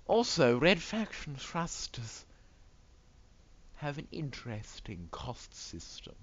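exaggerated high, swooping announcer voice; pompous hammed-up pundit, words stretched out; put-on commentator. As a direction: play a theatrical commentator weighing the odds.

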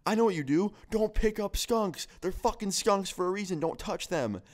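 high-pitched mock exasperation; exasperated scolding. Friend lecturing skunk-sprayed guest, retold exasperated scolding.

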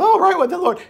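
mock the viewers' reaction; mocking the viewers. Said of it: "people are going".

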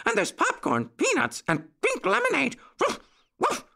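very high, yappy little voice; excited puppy boy. A narrator's reading. Puppy boy tells Uncle Wiggily about the treats, high and excited.

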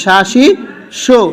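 শাসিসু drawn out slowly, each syllable apart; slow demo. Shown as a demonstration. Teacher modelling for pupils, slow syllable-by-syllable শাসিসু. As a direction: stretch শাসিসু out for the student. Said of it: "আমি একটু পড়ি".

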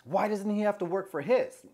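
mildly heated mock indignation; retold heated. Woman arguing with the friend about begging, retold as mildly heated. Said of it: "she starts getting all heated".

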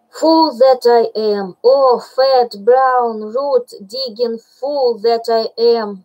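a hint of a bear cursing himself; self-scolding bear. Baloo berating himself, mock anguish.

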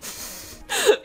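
short high squeal of a laugh; breathy high-pitched giggle. Real, not acted. Player reacting to the roommate, giggling.

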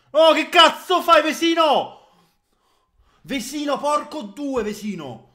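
high, loud furious shout; angry yelling. Real, not acted. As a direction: yell at the player's blunder. Yelling at a player.

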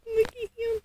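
soft coo. Real, not acted. Mom cooing as she holds the doll.

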